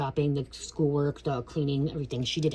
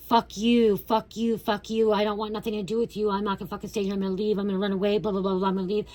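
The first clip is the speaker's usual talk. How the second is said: raised, higher-pitched mock yell of a defiant kid; angry teen outburst; 5 semitones higher than usual. Child cursing at stepmom, mock angry outburst. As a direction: act out the angry child storming off. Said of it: "this is the energy I was in".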